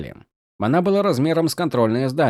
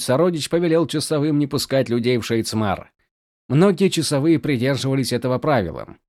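plain reading voice

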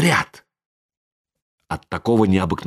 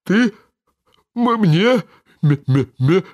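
stuttering on "м-" then an explosive sneeze; stammering into a sneeze; 7 semitones higher, slower than usual. A narrator's reading. Karabas stammers and sneezes mid-scolding. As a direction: get stuck on the word, then sneeze.

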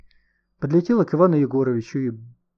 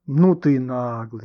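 slow, drawn-out amused tease; 3 dB louder, slower than usual. A narrator's reading. Nikita teasing his cheeky friend, amused and drawn-out. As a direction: tease with a touch of laughter. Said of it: "засмеялся Никита".

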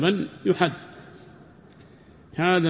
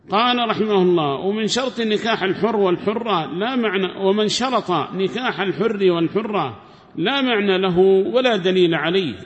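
higher, louder formal reading of the book; reading the text aloud; 4 semitones higher, 4 dB louder than usual. Acted. Teacher reads the commentary to his class, formal reading voice. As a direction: recite the scholar's words like a text read to students.

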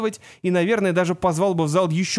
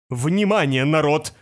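louder call for attention; 4 dB louder, slower than usual. Acted. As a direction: call the room to order. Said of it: "сердито рыкнул".

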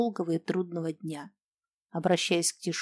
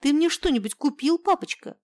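put-on high, whiny little girl's voice; little girl whining to her dad for treats; whining child; 9 semitones higher, 5 dB louder than usual. A narrator's reading. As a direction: wheedle like a spoiled small girl. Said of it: "конючила Юлечка".

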